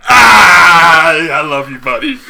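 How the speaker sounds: huge high wail settling toward normal; hammed-up sobbing affection; mock emotional cry. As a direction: burst out wailing, then ease off into a laugh. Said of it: "looked at Iron Man and went".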